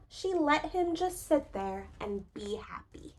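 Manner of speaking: soft whisper of contentment; a whispered happy ending. A narrator's reading. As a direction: hush it, tenderly. Tender storybook line.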